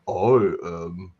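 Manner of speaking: a mock, hammed-up imitation of an actress voicing Loyal; deadpan mock character line; imitating Loyal. Mocking the actress to a co-host with a lightly hammed-up Loyal voice. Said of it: "talk like Loyal".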